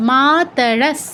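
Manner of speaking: মাতরস slowly, final s made at the teeth; dental s demo. Shown as a demonstration. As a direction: finish মাতরস on a held dental s. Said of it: "দন্তেই উচ্চারণটা করতে হবে". (মাতরস ধীরে, দন্ত্য স-এ শেষ)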